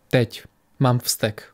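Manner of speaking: slow, muted voice as if from afar; zastřený hlas. A narrator's reading. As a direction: say it slowly, muffled and distant. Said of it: "zněl zastřeně, jako někde z dálky". (pomalu, zastřeně, jako z dálky)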